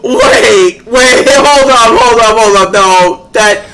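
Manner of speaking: flustered backpedaling. Real, not acted. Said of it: "that came out wrong".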